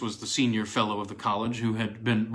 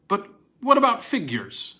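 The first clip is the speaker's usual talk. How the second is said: keen, higher question; marked interest; 8 semitones higher, 4 dB louder than usual. A narrator's reading. Williams quizzes Nisbet about figures in the picture, keenly interested. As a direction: lean in, suddenly very interested. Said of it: "with marked interest".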